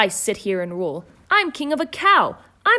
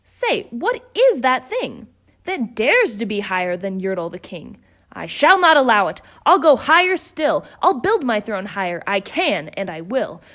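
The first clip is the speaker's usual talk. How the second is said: louder, indignant outburst; furious king; 4 dB louder than usual. Acted. Yertle rages at the moon, louder. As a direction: refuse to be outdone. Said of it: "snorted Yertle".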